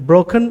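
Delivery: broken, stressed on BRO; stress on first syllable. Shown as a demonstration. Teacher showing learners first-syllable stress, stress on BRO in broken. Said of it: "first syllable पे stress".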